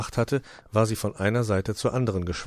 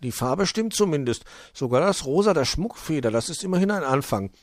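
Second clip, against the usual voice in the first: lightly voiced kobold, pitched up; higher storybook kobold voice; kobold conceding; 7 semitones higher, 4 dB louder than usual. Wuschel's voice in read story.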